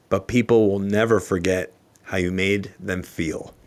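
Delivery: real, held-back emotion after the words land; choked up. Real, not acted. Speaker moved by a favorite quote, getting choked up. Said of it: "that one gets me choked up sometimes".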